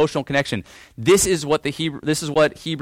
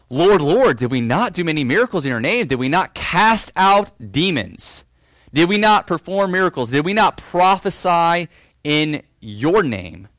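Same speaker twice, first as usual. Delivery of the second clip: louder, higher insistent protest; indignant pleading; 4 semitones higher, 3 dB louder than usual. Retold or imitated. Would-be followers pleading to Jesus, insistent and raised. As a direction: press every "did we not" like a list of proof.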